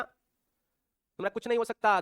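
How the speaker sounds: नहीं drawn out long and falling, whole line slow; slow mock despair, stretching नहीं; slow teasing repeat. Shown as a demonstration. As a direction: drag out every word, leaning on नहीं.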